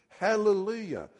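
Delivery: Hallelujah cried out high and loud; shouted hallelujah. Acted. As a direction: shout Hallelujah like a cheering crowd. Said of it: "but they shouted".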